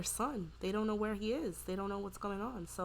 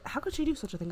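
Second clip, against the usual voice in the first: higher, louder retold disbelief; shocked; 6 semitones higher, 5 dB louder, faster than usual. Steven hears about the missing baby, acted shock. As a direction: act out his shock at what she did. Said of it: "like, complete shock".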